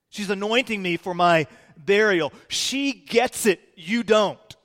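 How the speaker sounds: intense rebuke. Acted. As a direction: act out a firm defence of her. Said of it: "there was some intensity".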